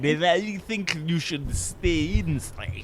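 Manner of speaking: slow, put-on foreign accent; attempted vague Slavic accent. Host imitating the movie nurse's vague Eastern European accent. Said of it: "Do you think that sounded like it?".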